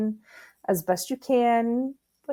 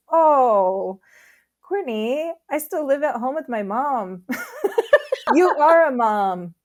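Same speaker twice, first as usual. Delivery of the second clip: higher-pitched imitation of a laughing friend; amused, sweet friend; 5 semitones higher, 4 dB louder than usual. Friend laughing kindly at a busy mom, imitated amusement. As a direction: retell his sweet, amused reply in a lifted voice. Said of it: "He's so sweet. He starts laughing".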